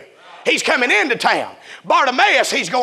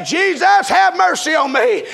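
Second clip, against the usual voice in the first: preacher's raised, pleading shout; crying out; 4 semitones higher than usual. Retold or imitated. Blind Bartimaeus calling to Jesus for mercy, crying out. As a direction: cry out for mercy in preaching cadence. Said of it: "began to cry out and say".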